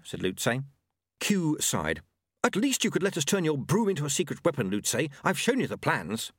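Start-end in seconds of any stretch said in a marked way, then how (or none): 2.4-6.3 pleading inventor monk, lifted pitch. Acted. Monk urging sweeper to modify broom, pleading. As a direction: coax in the higher monk voice.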